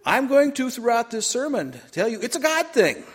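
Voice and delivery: preacher rousing the crowd; emphatic call-out. Real, not acted. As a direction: build it up for the congregation. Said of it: "This is audience participation day".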